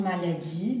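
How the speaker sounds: "maladie" with the final E left unpronounced; silent final E. Shown as a demonstration. Teacher showing students the pronunciation, "maladie" with silent final E. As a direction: say "maladie" ending on the i sound, E silent. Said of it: "la E final no la pronuncio".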